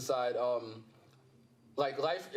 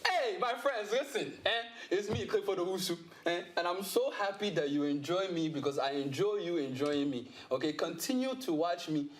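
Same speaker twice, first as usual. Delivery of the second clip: higher-pitched, emphatic African accent; 4 semitones higher than usual. Shown as a demonstration. Comedian greeting fans on request in an African accent. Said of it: "my inner African".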